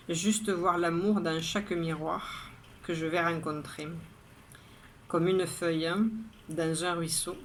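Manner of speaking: measured poetry reading, line by line; poem recitation. Acted. Poet reading her daily poem to viewers, measured recitation.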